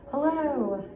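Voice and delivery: hello exclaimed, high swooping fall; exclamation. Shown as a demonstration. Teacher shows pupils exclamation punctuation, exclaimed. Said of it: "how would you punctuate".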